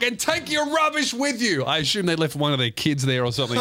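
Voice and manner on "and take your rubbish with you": mock yell. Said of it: "he's like".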